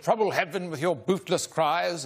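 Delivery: imitating a British sonnet reader; British accent. British fellow reading sonnets on a recording, British accent. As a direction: recite verse in a put-on British accent. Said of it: "a very British-sounding fellow".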